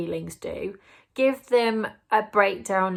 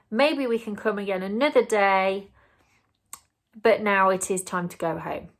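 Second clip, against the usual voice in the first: calm reassuring parent. Shown as a demonstration. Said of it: "So you say".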